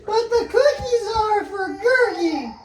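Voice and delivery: very high, loud pixie squeal; squeaky pixie voice. Acted. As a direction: play a tiny excited pixie. Pixie voice continues.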